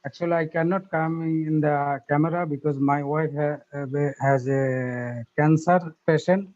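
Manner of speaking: normal talking voice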